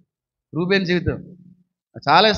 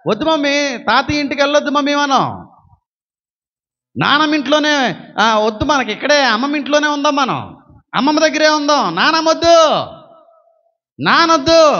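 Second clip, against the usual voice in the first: put-on higher, whining child begging mummy; pleading child; 5 semitones higher than usual. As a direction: beg like a small kid clinging to mum. Child begging mother not to go. (చిన్న పిల్లాడిలా బతిమాలుతూ)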